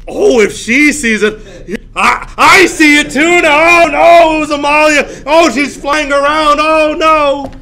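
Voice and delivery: hammed-up shrieking hysteria; mock hysterical girls. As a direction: wail like little girls copying each other's fright. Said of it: "because they're like".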